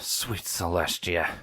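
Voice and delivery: low, slow mutter under the breath. Acted. Longshot muttering in dismay to himself. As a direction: mutter it to yourself, drawn out. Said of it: "Longshot muttered".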